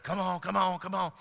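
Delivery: half-hearted call to the dogs; weak calling. Retold or imitated. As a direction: call the dogs without conviction. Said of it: "recognize the command with authority".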